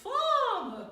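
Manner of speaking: "Femme!" sung out high and loud with an open ah; belted femme. Shown as a demonstration. Teacher belting "Femme!" to show the open ah. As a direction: throw out "Femme!" loud on a bright ah vowel. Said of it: "we have femme".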